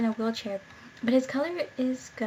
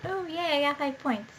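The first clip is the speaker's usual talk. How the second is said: excited; 4 semitones higher than usual. Real, not acted. Game reward reaction.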